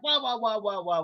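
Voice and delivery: flat repeated wah syllables; plain wah wah. Shown as a demonstration. Teacher showing how the lick should not sound, flat wah wahs. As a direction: sing the wah wahs evenly, like the harp without bends. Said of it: "we don't want it to sound like".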